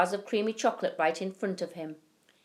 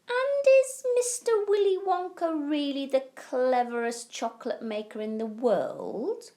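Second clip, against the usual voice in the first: Charlie asking eagerly; 8 semitones higher than usual. A narrator's reading. Charlie asks grandparents eagerly.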